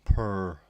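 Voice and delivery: loud mock purr; a punchy pretend purr; imitated purr. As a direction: purr like a cat, spelt out loud.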